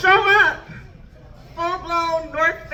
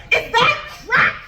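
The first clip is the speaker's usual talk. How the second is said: high, louder, panicked question; panicked loud blurt; 10 semitones higher, 3 dB louder than usual. Retold or imitated. Comic retelling her panicked outburst in the trap house, loud high blurt. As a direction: blurt it out as loud as you can. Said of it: "as loud as I could".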